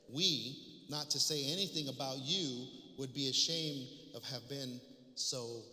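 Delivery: reading the epistle aloud with firm projection; preacher reads scripture to the congregation, emphatic and measured. Acted. Preacher reading Paul's letter to his church, emphatic public reading.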